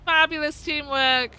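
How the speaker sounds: loud, slow, triumphant congratulations; excited cheering. Real, not acted. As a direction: cheer them over the finish line. Cheering friends finishing the push.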